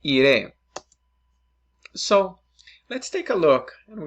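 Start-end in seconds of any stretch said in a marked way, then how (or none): 0.0-0.5 clear model word. Shown as a demonstration. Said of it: "And in this case, in Spanish".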